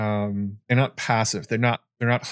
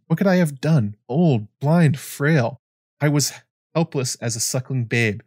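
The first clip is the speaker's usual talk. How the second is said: raised, pained lament; grieving old maester; 3 semitones higher than usual. Acted. Old maester lamenting his helplessness to John, raised and pained. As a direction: let the grief lift the voice.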